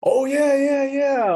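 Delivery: high, loud, delighted yeah yeah; light up at seeing the elders; a burst of happy recognition, almost shouted; excited greeting. Real, not acted.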